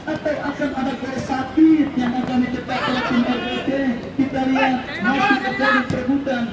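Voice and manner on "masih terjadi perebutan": higher pitched excited call; excited commentary. Acted. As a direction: rise up with the tension. Tense scramble for ball.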